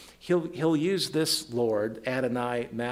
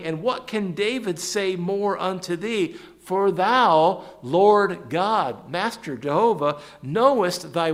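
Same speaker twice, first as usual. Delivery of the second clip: raised, forceful scripture reading; emphatic scripture reading; 5 semitones higher, 6 dB louder, slower than usual. Acted. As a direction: proclaim the verse to the congregation. Reads scripture aloud with emphasis.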